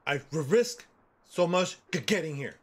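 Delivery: slow, halting stutter. Retold or imitated. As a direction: drag out each stutter. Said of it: "know that I stutter".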